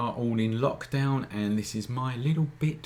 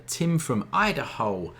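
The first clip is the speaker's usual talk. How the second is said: attempted American accent; 5 semitones higher than usual. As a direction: draw it out in a mock American accent. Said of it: "me trying to do an American accent there".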